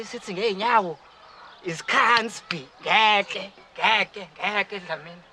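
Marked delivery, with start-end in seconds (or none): 1.6-5.2 loud, stubborn no, repeated; defiant loud refusal. Acted. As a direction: refuse loudly, digging in.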